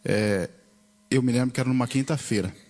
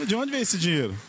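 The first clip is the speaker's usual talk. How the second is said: raised, wondering repeat of the question; astonished repeat; 8 semitones higher than usual. Retold or imitated. Retelling his shock at the bank balance, amazed repeat. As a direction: ask it again, still amazed.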